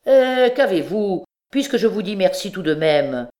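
loud, high, cheeky retort; insolent. Acted. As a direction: answer with brazen mockery. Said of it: "avec son effronterie habituelle".

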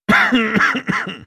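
loud cough; throat-clearing cough. A narrator's reading. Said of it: "Откашлялся я".

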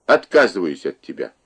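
furious mother disowning her daughter; mother's angry shout. Acted. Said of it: "крикнула она".

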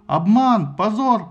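loud, high outraged cries; crowd shouting. Acted. Assembly crying foul at the vote, loud outraged shouts. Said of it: "послышалось вокруг".

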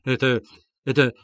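lightly voiced fussy official, flustered; a touch of a pompous man backing off; hint of a flustered gentleman; flustered muttering. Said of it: "бормотал Лужин".

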